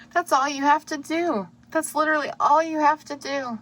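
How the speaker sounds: fighting back real tears while pleading; tearful, tender pleading to the listener; getting emotional. Real, not acted. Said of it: "I'm getting emotional".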